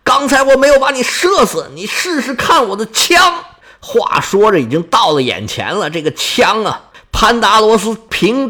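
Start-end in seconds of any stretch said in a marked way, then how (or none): 0.1-3.3 high, carrying mock battle shout; battle cry. Pandarus shouting at his foe, high battle cry. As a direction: yell the challenge across the field. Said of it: "潘达罗斯高喊呢：".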